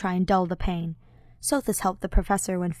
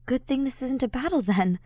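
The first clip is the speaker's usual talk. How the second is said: half laugh; 6 semitones higher than usual. Acted. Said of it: "Ash half laughs".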